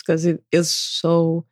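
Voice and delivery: slow, stretched out with a smile; a real smile in the voice; smiling voice. Real, not acted. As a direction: let them hear you smiling. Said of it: "hear the smile in my voice".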